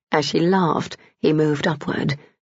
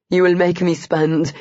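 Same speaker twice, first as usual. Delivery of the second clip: through gritted teeth. A narrator's reading. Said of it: "he gritted out".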